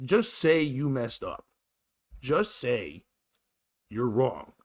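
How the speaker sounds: deliberate, spaced-out words; slow, insistent demand. Retold or imitated. Passenger demanding driver admit fault, slow and insistent. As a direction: press each word for a confession.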